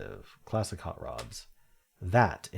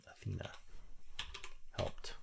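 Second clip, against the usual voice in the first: Athena murmured much softer to herself; quiet repeat; 14 dB quieter than usual. Real, not acted. Filling in the answer to herself, quiet repeat. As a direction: say Athena under your breath while writing it in.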